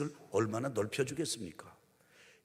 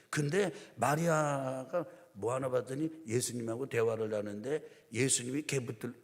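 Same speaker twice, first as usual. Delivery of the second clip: ordinary talk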